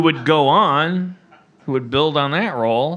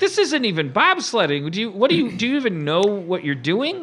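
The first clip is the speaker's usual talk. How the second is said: high-pitched mock exasperated holler; yelling retold; 5 semitones higher than usual. Dad to his young son on the coaster, retold yelling. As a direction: re-enact berating someone out of earshot. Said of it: "I kept yelling".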